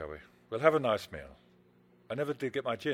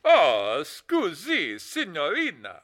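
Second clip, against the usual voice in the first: hammy Italian charm; slow, put-on Italian accent; much slower than usual. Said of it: "that phony Italian accent".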